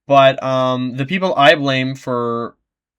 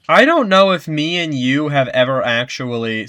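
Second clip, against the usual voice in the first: breathless, pushing words out; winded from talking fast; out of breath. Real, not acted. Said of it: "I'm out of breath from that".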